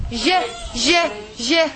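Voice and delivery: "Je" repeated as a separate syllable; letter sound jim. Shown as a demonstration. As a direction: drill "Je" with pauses between. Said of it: "this is the jim".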